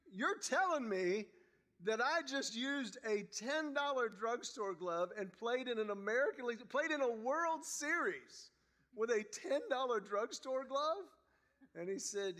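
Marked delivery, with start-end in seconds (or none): 0.1-11.1 rising, slowed disbelief, pitch climbing; can't believe what he just heard; incredulous. Retold or imitated. Retold disbelief at ten-dollar glove.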